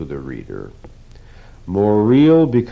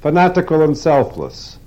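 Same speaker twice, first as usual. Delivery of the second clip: much higher, amused disbelief; incredulous echo; 9 semitones higher, 3 dB louder than usual. Acted. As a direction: toss the words back, amazed. Rourke repeats words in disbelief.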